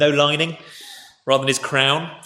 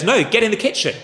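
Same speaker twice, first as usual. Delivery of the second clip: higher-pitched retold command; mock curt order; 6 semitones higher than usual. Someone sending the disguised king away, mock bossy. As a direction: order them off, lightly acted.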